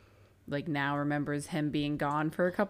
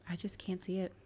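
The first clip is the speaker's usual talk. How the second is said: whisper; 7 dB quieter than usual. Real, not acted. Doubting the suspect theory.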